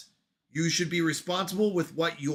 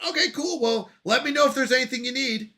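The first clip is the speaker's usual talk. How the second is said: high-pitched, casual boss voice; imitated breezy boss; 5 semitones higher than usual. Boss wrapping up a check-in, breezy imitation.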